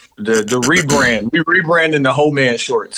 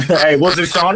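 laughing tease; 2 semitones higher than usual. Real, not acted. Friend teasing about the rapping girl, laughing. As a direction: crack up, then tease him.

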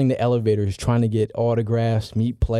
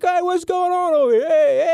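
tipsy Chris Berman. Retold or imitated. Drunk Berman hailing the commotion, high boozy call. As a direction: ham up a lit broadcaster's greeting. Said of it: "He's like".

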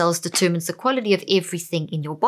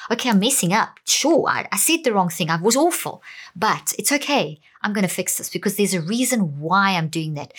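calm reassuring self-talk. Shown as a demonstration. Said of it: "how much calmer you feel just hearing me say that".

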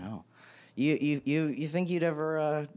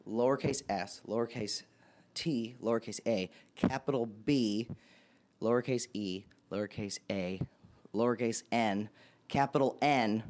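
spelling it out. Real, not acted. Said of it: "is it all caps?".

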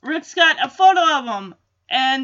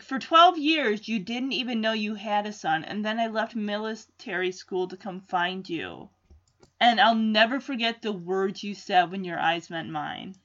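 somber; 4 semitones lower, 4 dB quieter than usual. Retold or imitated. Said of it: "Rick is very somber and serious when he says this".

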